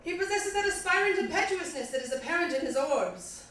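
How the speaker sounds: slightly bad British recital; quasi British accent. Comic recites a rap song to audience, slightly bad British accent. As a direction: read it as poetry in mock-British English. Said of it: "slightly bad British accent".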